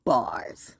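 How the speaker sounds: whispered aside in the woodpecker's name. Pretend. Giving the woodpecker a line, a hushed whisper. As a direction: breathe the word like a voice from the trees. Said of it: "The woodpecker said".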